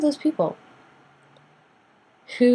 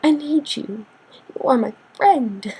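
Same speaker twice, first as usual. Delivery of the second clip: mildly hammed-up pleading, higher at first; fake-friend neediness; 4 semitones higher, slower than usual. Fake friend leaning on you, mock-needy. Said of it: "The fake friends who are like".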